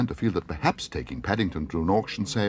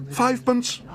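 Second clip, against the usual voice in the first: far higher, eager cry; excited cry; 5 dB louder, slower than usual. Acted. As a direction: blurt the bid with glee. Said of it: "cried Paddington excitedly".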